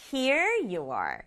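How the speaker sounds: slow handing-over line weighted on "here"; stress on here. Shown as a demonstration. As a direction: lean on "here", let "you are" drop. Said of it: "요렇게 강조하면 되겠죠".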